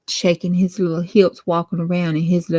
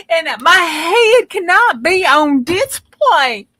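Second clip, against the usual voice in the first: panicked plea; 9 semitones higher, 5 dB louder than usual. Acted. Nancy calls sheriff in panic.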